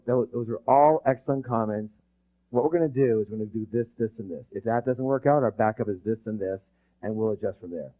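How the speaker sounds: low, easy-going instruction; nice, calm directive. Acted. Leader closing a managers' meeting, nice and calm. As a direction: wrap up gently but decisively. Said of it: "do that in a very nice way".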